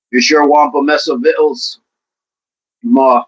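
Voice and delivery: lightly put-on Southern accent. Host offering victuals to chat, mock Southern accent. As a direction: play it like a folksy Southerner. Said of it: "A Southern accent".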